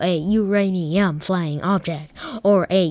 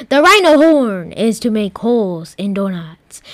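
proud yell; 5 dB louder than usual. Acted. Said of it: "yelled to the computer".

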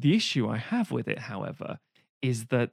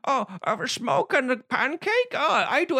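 high, hammed-up mock Dutch accent; bad Dutch accent; 11 semitones higher than usual. Mimicking Goldmember to a co-host, mock Dutch accent. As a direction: put on a squeaky, silly Dutch voice. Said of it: "I can do a Dutch accent".

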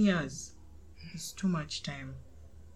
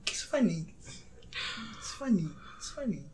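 anger turning to laughter; 6 semitones higher, 12 dB louder than usual. Real, not acted.

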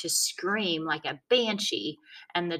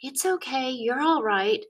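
soothing; 6 semitones higher than usual. A narrator's reading. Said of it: "saying things to him".

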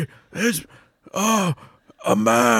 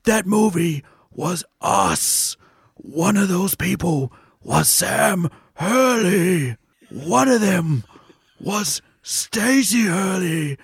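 storybook narration; 2 semitones lower, slower than usual. Acted. Storybook opening of a podcast.

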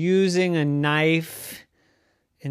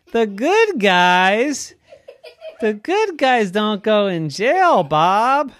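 loud, high, amused laughing correction; 6 semitones higher, 7 dB louder than usual. Acted. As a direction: laugh while setting Bob straight. Correcting Bob, laughing at him.

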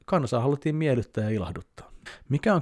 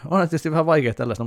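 laughing; 7 semitones higher, 6 dB louder, faster than usual. Real, not acted. Laughing at the grim fairy tale.

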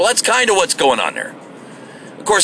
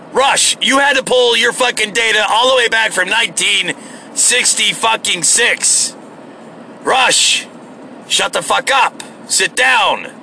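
higher-pitched, exasperated telling-off; exasperated rant; 5 semitones higher than usual. Real, not acted. Podcaster telling off Rush over old data, exasperated. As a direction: scold him with rising exasperation, easing slightly at the end.

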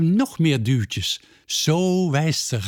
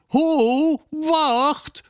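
much higher calling stop; 14 semitones higher than usual. A narrator's reading. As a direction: call him back quickly. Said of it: "roept Peerke".

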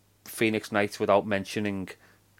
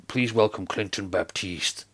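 1 announcer voice; 6 semitones lower, 7 dB quieter than usual. Retold or imitated. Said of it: "I was like, you know".

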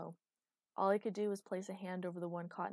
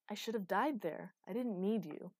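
moderately raised, bitter voice; contained heated rejection; angry retort; 2 semitones higher, 3 dB louder than usual. Acted. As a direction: push him away with the words. Acted quarrel, bitter retort.

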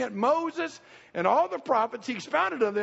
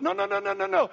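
1 emphatic denial; 8 semitones higher than usual. Real, not acted. Rejects the accidental death idea.

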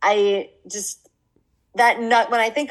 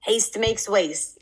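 family slogan; much slower than usual. Retold or imitated. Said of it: "a slogan in our household".

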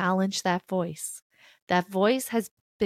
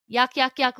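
mock disgust; 4 semitones higher, 5 dB louder than usual. Mocking disgust at discomfort.

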